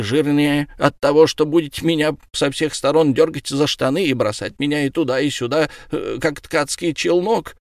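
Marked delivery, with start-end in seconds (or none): none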